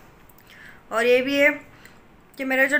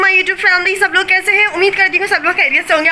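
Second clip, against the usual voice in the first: talking fast; 6 semitones higher than usual. Real, not acted. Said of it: "मैं इतनी जल्दी जल्दी क्यों बोल रही हूँ".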